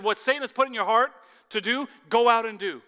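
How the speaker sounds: loud, high and fast command; commanding preacher's shout. Acted. Jesus ordering Judas out, in a loud commanding voice. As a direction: drive the order home from the pulpit.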